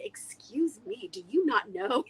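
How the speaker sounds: lightly voiced snooty dog; haughty dog voice. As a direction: look down your nose at him. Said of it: "He just felt like".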